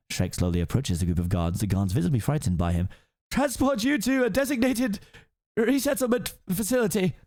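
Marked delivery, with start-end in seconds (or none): 3.3-7.1 high officious proclamation; pompous guard captain. Acted. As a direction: announce the arrest grandly. Captain continues order.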